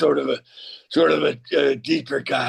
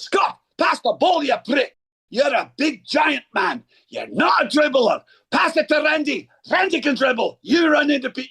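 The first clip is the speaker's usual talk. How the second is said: loud, high Scottish yelling at a teammate; Scottish soccer player shouting at a teammate for the ball, angry; 11 semitones higher than usual. Retold or imitated. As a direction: bellow it like a furious Scottish footballer. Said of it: "I know that Scottish, it's going to be loud and it's going to be angry".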